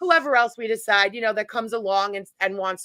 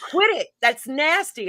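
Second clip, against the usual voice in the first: retold scolding; 5 semitones higher than usual. Retold argument with David.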